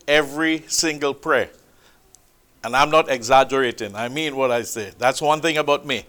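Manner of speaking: ordinary delivery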